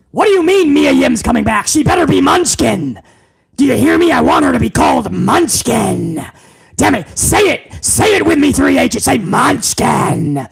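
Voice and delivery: a hint of a bossy tycoon giving orders; Vince McMahon impression.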